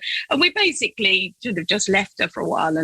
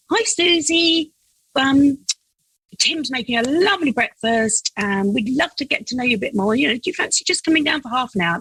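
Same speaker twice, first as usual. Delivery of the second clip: sing-song coaxing; 4 semitones higher than usual. Retold or imitated. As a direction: coax her down kindly. Coaxing knock on bedroom door.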